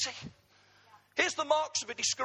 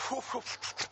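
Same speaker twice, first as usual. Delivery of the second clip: puffed-out breath; 6 dB quieter than usual. Retold or imitated. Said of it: "he'd always went".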